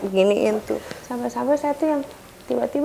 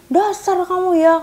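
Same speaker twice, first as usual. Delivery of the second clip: higher, slow contemptuous insult; angry insult; 8 semitones higher, 4 dB louder than usual. Retold or imitated. Husband cursing the technician, angry. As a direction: drag it out with contempt.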